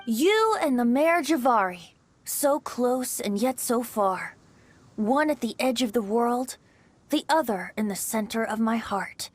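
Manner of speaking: poem recitation. Acted. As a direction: savour each line of the poem. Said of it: "Bennett, may I recite your work?".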